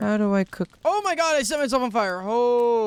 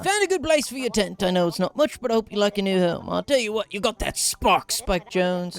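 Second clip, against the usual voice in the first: put-on Australian accent. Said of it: "I refuse to apologize for my accent".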